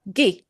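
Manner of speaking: "gi" with a hard G, like "ghee". Shown as a demonstration. Teacher showing learners a silent letter combination, hard G in "gi". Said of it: "make the G go into a hard G sound".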